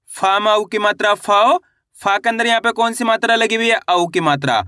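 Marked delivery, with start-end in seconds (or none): 0.1-1.6 teacher's sing-out of "फाओ", glide held and lifted; spelling-out demo. Shown as a demonstration. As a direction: sound out फा plus औ, stretching "फाओ" upward. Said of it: "किस तरीके से इनका उच्चारण किया जाता है".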